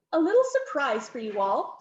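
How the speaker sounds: a touch of smug delight; mildly crowing hostess; crowing with pleasure. Acted. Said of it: "the Countess crowed in pleasure".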